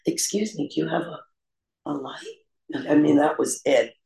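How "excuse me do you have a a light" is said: high, soft and coy, pitch climbing to a squeak; flirty ask.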